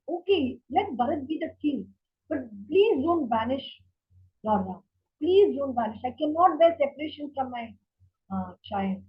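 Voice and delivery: a touch of begging through grief; pleading king. Retold or imitated. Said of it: "he's pleading and he's crying".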